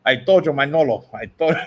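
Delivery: put-on a light Cuban gangster accent, Tony Montana style; mock Scarface accent. A boxer teased in a mock Scarface accent. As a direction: tease him with a hint of Scarface. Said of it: "That's Scarface".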